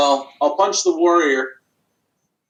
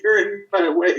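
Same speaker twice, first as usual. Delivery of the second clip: dragon voice; 5 semitones higher than usual. Acted. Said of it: "use the dragon's voice".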